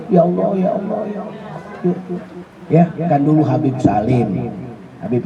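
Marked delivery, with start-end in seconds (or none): 0.1-2.2 mock whimpering prayer. Shown as a demonstration. Preacher demonstrates pleading that pleases Allah, fading mock whimper. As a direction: whimper to God, trailing away. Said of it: "boleh ngerengek sama Allah".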